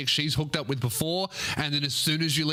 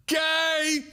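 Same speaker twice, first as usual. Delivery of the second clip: mock squeal; 14 semitones higher, 3 dB louder than usual. Mock shout at the letter.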